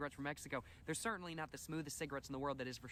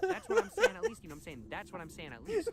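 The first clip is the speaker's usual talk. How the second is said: very high, loud squeak; high falsetto catchphrase; squeaky voice; 10 dB louder than usual. Acted. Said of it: "squeaky high repeat of catchphrase".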